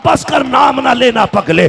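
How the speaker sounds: mother cries out in alarm to stop him; alarmed shout. Acted. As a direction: she shouts to silence her son. Mother forbids saying the name.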